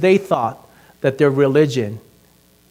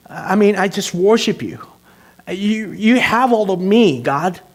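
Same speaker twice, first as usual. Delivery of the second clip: humble prayer. Retold or imitated. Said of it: "what if I say to Jesus".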